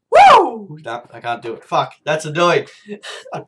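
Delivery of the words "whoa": high, loud amazed whoa; shouted whoa of amazement; retried whoa. Shown as a demonstration. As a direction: belt out the whoa again.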